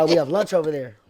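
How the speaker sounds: proper, everyday American English; tidy American accent with no slang; regular American accent. Shown as a demonstration. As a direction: say it in a neat, standard American accent. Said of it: "Just regular".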